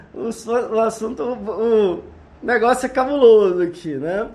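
after laughing hard. Real, not acted. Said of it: "tô chorando de rir aqui".

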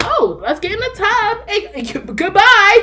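high, loud bath-time rush; sudden scramble to bedtime, retold; retold hurried exclamation. Retold rushing child to bath.

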